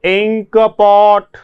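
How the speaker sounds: इंक पॉट said slowly, each syllable clear; careful pronunciation. Shown as a demonstration. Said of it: "इसका उच्चारण करेंगे". (इंक पॉट धीरे उच्चारण)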